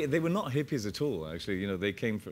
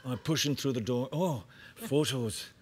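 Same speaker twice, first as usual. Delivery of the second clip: trailer voiceover; 4 semitones higher than usual. Pretend. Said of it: "they need voice dubbing".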